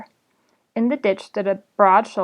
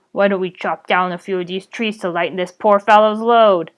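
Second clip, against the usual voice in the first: slower, deeper goblin; 4 dB louder than usual. Acted. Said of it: "slower and deeper than the other".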